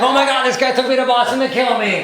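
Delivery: high, loud imitation of a panicked girlfriend; mock panic. Girlfriend after her hair caught fire, hammed-up panic. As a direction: shriek it out in comic alarm.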